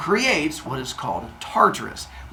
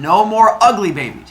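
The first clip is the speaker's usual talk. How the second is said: loud, high-pitched assurance; emphatic promise; 5 semitones higher, 5 dB louder than usual. Acted. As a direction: promise it firmly to a husband. Mother Earth promises her husband.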